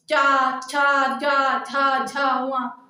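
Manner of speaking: "चा, छा, जा, झा, झा, वहाँ" in an even run with open vowels; syllable demonstration. Shown as a demonstration. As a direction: recite "चा, छा, जा, झा, झा, वहाँ" evenly as a sound drill. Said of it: "हमारे साथ बोल के देखिए". ("चा, छा, जा, झा, झा, वहाँ" लगातार, बराबर लय में उच्चारण)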